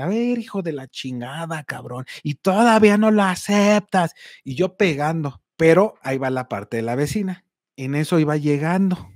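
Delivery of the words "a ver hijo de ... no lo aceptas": imitating himself getting angrier at the thief; angry cursing. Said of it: "Me encabroné todavía más y le empecé a mentar la madre".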